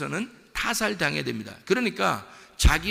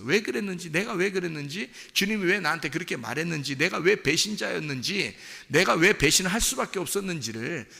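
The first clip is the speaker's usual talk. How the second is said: earnest confession; 3 semitones higher than usual. Acted. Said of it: "주님께 고백하는 거예요".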